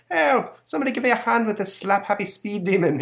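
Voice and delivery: high, loud cry for help; howling for help. Acted. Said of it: "the Leprechaun howls".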